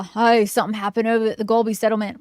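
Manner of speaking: gruff NPC voice. Acted. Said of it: "you thought I'd give him a high voice".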